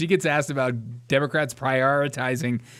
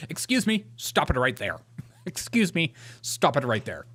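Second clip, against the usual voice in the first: imitating the congresswoman. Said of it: "I want that to be a soundbite".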